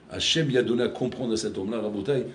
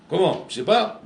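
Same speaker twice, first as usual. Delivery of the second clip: étonnement imité; 6 semitones higher, 5 dB louder than usual. Retold or imitated. Adulte étonné raconté à l'enfant.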